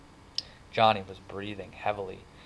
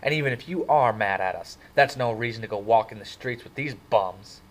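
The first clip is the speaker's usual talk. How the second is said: angry; 4 dB louder than usual. Acted. The tall Soc snapping at Marcia about the greasers, mildly angry. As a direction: sneer at the bums with rising irritation. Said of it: "he got angry".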